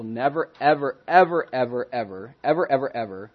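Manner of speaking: "never, ever" piled up, each "ever" its own beat; emphatic repetition. Real, not acted. Preacher stressing God's promise to believers, emphatic repetition. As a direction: hammer "ever" over and over, then let the last drop.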